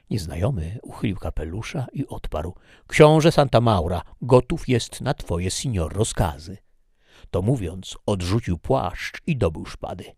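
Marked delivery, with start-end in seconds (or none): 2.9-6.6 proud duke. Acted. Duke accepts challenge.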